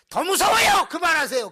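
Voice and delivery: high, loud pleading cry; alarmed pleading yell; scared shout. Retold or imitated. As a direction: beg them to stop, frightened. Pastor scared by mother.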